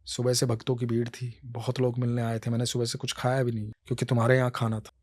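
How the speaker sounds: Krishna tells his devotee how he waited; gentle Krishna. Acted. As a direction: soothe the hurt devotee.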